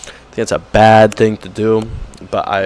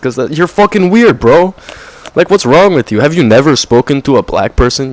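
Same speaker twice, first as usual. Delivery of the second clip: incredulous rant; 4 semitones higher than usual. Real, not acted. Ranting at performative posters.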